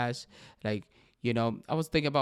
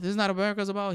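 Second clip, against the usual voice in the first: incredulous echo; 7 semitones higher, much faster than usual. Real, not acted. Podcaster repeats the president's line, stunned and incredulous. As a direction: throw his words back in disbelief. Echoing the quote in disbelief.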